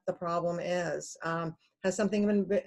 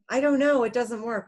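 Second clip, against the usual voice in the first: high, louder helpless customer; flustered caller; 4 semitones higher, 4 dB louder than usual. Retold or imitated. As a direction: play a confused caller who only knows it's broken. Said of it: "all they know is that it doesn't work".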